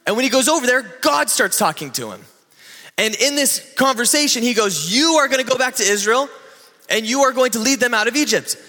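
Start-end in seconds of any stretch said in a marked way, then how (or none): 4.9-8.6 voice of God. Retold or imitated. God sending Moses back to Egypt, fast higher command. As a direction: rush the orders like an eager God.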